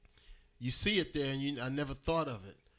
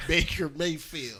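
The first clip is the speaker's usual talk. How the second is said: laughing; 3 semitones higher, 5 dB louder, slower than usual. Real, not acted. Mocking the name, laughing.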